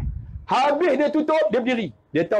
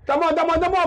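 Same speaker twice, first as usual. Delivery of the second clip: put-on higher-pitched childish refusal; sulky child refusing; 5 semitones higher than usual. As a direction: play a child stubbornly refusing food. Acting child refusing food. (budak merajuk tak mau makan)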